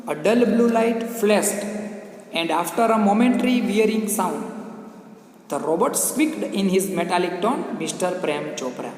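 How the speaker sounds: very slow, drawn-out English reading; slow textbook narration for a class; story read-aloud. Acted. Reads the story text aloud.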